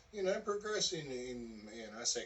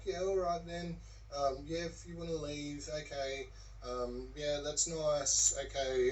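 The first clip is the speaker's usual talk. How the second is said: put-on higher, peeved girlfriend voice; a touch of sulky sarcasm, pitched up; offended woman; 5 semitones higher, 4 dB louder than usual. Date brushing off his leaving, mock-offended and higher. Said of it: "at that point she's like".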